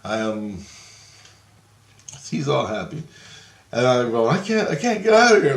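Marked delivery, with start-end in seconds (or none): 4.3-5.6 retold panic. Retold plea, stuck there.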